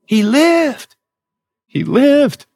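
high, ringing "He lived"; emotional high cry. A narrator's reading. Storyteller to host, relief bursting out high.

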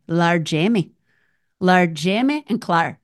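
put-on a light Scottish accent on the names. Host showing off her Scottish accent to her friend. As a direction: roll out the names in mock Scottish. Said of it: "That's my Scottish accent".

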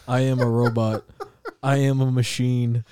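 chanting affirmations like a robot, cracking up; robotic self-talk that dissolves into laughter; toy robot voice. Pretend. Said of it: "Adderall affirmations".

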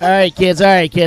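rally the group to start; calling everyone back. Real, not acted. Host calling the room to order.

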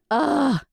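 retold exasperated "ugh"; exasperated groan. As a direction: groan like a fed-up parent. Retold exasperation at daughter's crying.

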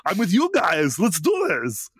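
pumped-up Arnold rallying the team. Acted. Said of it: "Arnold's actual voice".

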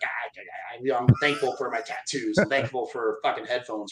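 mock grudging gratitude, pitched low; grudging, pissed. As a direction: recite thanks with retold mild irritation. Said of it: "I'm pissed the whole time".

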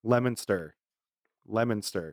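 Leominster as "LEM-in-ster", the O silent; local pronunciation. Shown as a demonstration. Naming own town, Leominster as "LEM-in-ster". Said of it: "so Leominster, you would think".

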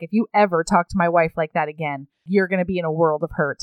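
low, controlled warning; lightly acted tough-guy threat; mock menacing threat. Cord warns Rob off insulting his wife, menacing. Retold threat after tossing him.

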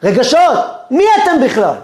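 a cry that dismisses them; inner scream. Pretend. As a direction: scream the emotions down. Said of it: "נותן צרחה אחת".

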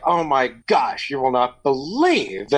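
drawn-out, gossipy disbelief; mock venting. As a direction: stretch it out as if venting to a confidant.

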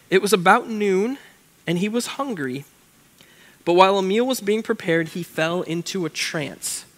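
measured, deliberate Bible reading; scripture reading. Acted. Pastor reading Acts to youth group, measured reading voice.

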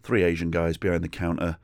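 normal talking voice

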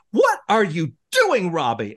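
slow, high, stern scold; stern Terry scolding. Retold or imitated. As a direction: scold him like a strict teacher. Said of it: "Terry was like".

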